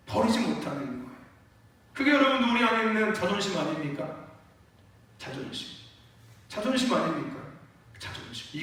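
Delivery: ordinary talk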